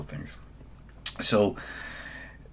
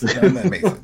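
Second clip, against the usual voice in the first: pitched up and loud, exasperated; louder exasperated repeat; 10 semitones higher, 6 dB louder than usual. Real, not acted. Co-host repeating his complaint, louder and exasperated. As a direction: hammer the line home in disbelief. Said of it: "repeats louder, higher".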